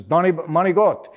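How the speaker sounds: lightly voiced Pacino line, "mah-nee-got"; a hint of Pacino's Manigot; quoting Al Pacino. Recalling the Donnie Brasco line, lightly voiced. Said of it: "He says".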